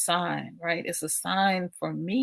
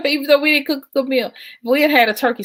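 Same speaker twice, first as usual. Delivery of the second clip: laughing; 9 semitones higher, 9 dB louder, faster than usual. Real, not acted. Laughing about chicken dinner.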